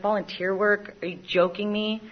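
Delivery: incredulous echo; mock disbelief. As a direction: question it as if it's absurd. Mock disbelief at own words.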